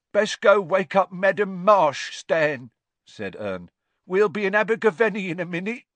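put-on loud, high old driver; old man. A narrator's reading. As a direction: call it out hurriedly. Old driver Ernie speaking.

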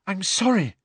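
high, gasped apology. A narrator's reading. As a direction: gasp it out, upset. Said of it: "Hermione gasped".

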